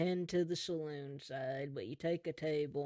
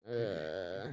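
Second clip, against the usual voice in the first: cringing groan; 9 semitones lower than usual. Acted. Sheriff cringes at fake accent, low groan. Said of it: "you cringe at that fake".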